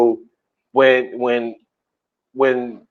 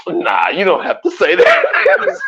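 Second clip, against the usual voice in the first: laughing quote; 4 semitones higher, slower than usual. Real, not acted. Laughing while quoting.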